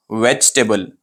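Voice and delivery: "वेजिटेबल" run together as VECH-tuh-bul; said as one. Shown as a demonstration. Teacher reviews the right way, compact "वेजिटेबल". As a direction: drop the middle "i" in "वेजिटेबल". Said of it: "एक साथ में बोले".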